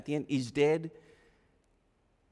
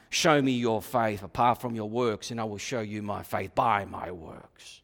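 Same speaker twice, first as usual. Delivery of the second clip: lower, calm comeback; lightly voiced James; 7 semitones lower than usual. James butting in on the objector, low and calm. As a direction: answer back, lower and steady. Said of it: "James butts in now".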